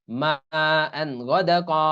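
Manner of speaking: slow, syllable-by-syllable reading; Quran recitation. Shown as a demonstration. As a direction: recite the example with drawn-out vowels. Teacher recites an example. (ধীরে তাজবিদসহ তিলাওয়াত)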